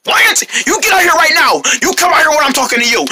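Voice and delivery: quick, bossy ordering about; mock scolding. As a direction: order them out like a cross little parent. Scolding lions that will not appear.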